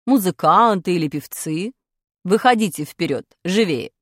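stern teacher quizzing class; strict teacher. Acted. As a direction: demand to know who has talent. Teacher voice in story.

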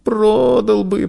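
put-on high, slow child's answer; small, obedient boy's voice; meek. A narrator's reading. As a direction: give in submissively. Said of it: "покорно ответил мальчик".

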